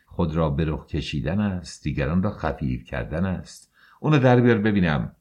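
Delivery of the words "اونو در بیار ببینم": fast, loud demand; angry order. Acted. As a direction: bark the order at her. Husband orders wife angrily. (دستور تند و عصبانی)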